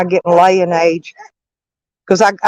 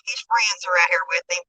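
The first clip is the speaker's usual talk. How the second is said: soft whisper to a pet; whispering to a dog; 9 dB quieter than usual. Real, not acted. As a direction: hush it to calm the dog.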